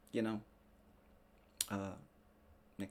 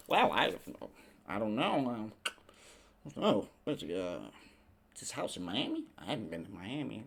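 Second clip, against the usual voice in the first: a touch of a dithering liar; hesitant celebrity denial. Retold or imitated. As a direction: fake innocence, hesitating. Celebrity denying, mocked.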